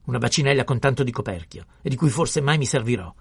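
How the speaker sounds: loud, high indignant tirade; furious shouting. A narrator's reading. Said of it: "il farmacista gridava". (sgridata furiosa, urlata)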